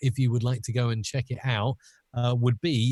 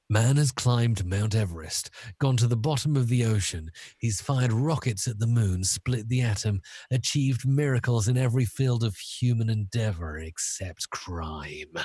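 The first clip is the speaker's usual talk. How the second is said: grand villain monologue, mildly hammed; lightly voiced evil mastermind; Bond villain. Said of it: "as if he was a Bond villain".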